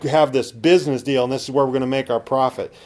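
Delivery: loud, brash, fast plans of a self-sure man; arrogant boasting. Retold or imitated. Pastor mocking arrogant businessmen's boastful talk to his church. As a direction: brag about your plans like nothing can stop you. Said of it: "It's an arrogant behavior".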